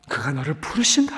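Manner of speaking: tender echo of the call; soft repeat. Shown as a demonstration. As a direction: let it sink in quietly.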